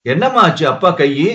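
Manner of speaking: put-on small girl pressing for an answer; pestering child. A narrator's reading. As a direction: nag mother with insistent questions, as a child. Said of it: "தொந்தரவு செய்தாள் ரோகிணி".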